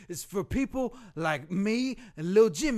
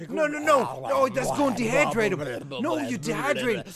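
loud, high frantic pleading; panicking over Lil Jimmy; hammed-up panic; 5 semitones higher, 8 dB louder than usual. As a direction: beg him to drink like it's an emergency. Frantic skit about Lil Jimmy.

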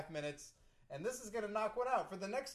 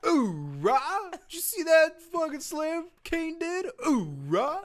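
high booming Marine cry; loud gung-ho soldier; 10 semitones higher, 8 dB louder, slower than usual. Retold or imitated. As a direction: shout it like a hyped Marine. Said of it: "It's like chanting".

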